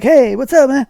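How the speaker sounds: high, loud bro greeting; friendly greeting. Retold or imitated. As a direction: call out like an old buddy. Stranger greeting him loudly.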